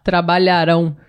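TRABALHARÃO weighted on RÃO; stress on last syllable. Shown as a demonstration. Co-teacher giving a future-tense example, final-syllable stress. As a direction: land on the end of trabalharão. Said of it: "é a última".

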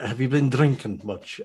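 put-on a touch of countrified Irish accent; mimicked countrified accent. Guest mimicking the host talking to men, light countrified accent. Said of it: "your accent ever so slightly changes".

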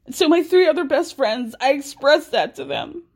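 a touch of hammed-up emotion; imitating emotional. Host mimicking Cody's confession, imitating emotional. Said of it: "he starts to get emotional".

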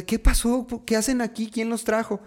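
high-pitched startled questioning; alarmed grandmother. Retold or imitated. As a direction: fire off questions like a worried grandmother. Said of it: "Mi abuelita". (abuelita alarmada, voz aguda)

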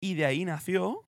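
presenter reading a timeline, rising at phrase ends; deliberate documentary-style read; scripted read-aloud. Acted. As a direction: read out the history in measured phrases. Reads out the company history.

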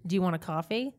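coffee said in an American accent. Shown as a demonstration. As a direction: ask Do you want a coffee in American English. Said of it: "How is your American accent?".

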